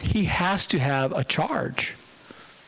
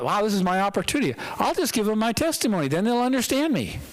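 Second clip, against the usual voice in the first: lightly acted eagerness, quick and higher; eager thought; 5 semitones higher, faster than usual. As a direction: rush it out hopefully, pitched up. Voicing Paul's hopeful thought.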